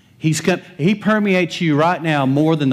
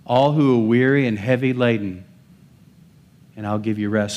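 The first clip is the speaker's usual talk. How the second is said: gentle Jesus quote; 4 semitones lower than usual. Retold or imitated. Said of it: "Jesus says".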